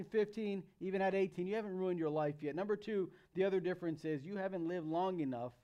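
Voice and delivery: ordinary delivery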